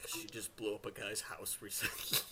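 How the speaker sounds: soft, understated aside; in character. Acted. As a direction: say it quietly, staying in character. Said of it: "Out of character".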